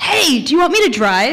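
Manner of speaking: loud high yell. Retelling a yelled offer to take over the driving: imitating someone yelling. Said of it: "He yells".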